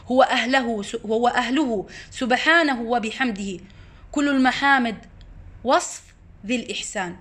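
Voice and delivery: slow, measured poetry recitation; reciting verse. Real, not acted. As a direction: draw out each line of the poem. Recites verse by Ibn al-Qayyim. (إلقاء شعر ببطء وتأنٍّ)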